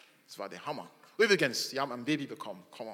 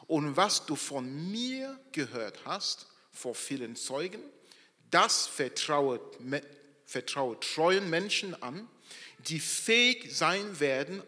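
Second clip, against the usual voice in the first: slow, louder solemn Bible reading; scripture reading; 4 dB louder, slower than usual. Acted. Preacher reading the passage to his congregation, solemn and slow. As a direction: proclaim the verse to the church.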